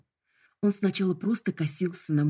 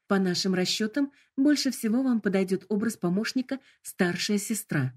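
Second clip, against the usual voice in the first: sugary, high assistant tone; sickly sweet voice; 4 semitones higher than usual. Acted. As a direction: sell the options with cloying charm. Hologram recommends mode.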